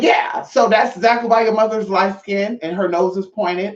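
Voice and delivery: a mild mock yell to a guy who denies his roots; retold shout. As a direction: call it out as you retell it. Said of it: "I said".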